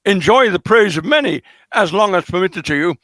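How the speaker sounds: heavy pointed reading, a mock queen hinting at the old king's death. Teasing listeners with the queen's unspoken hint, a pointed mock reading. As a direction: lean on the but, make the hint obvious. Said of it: "She says, you know".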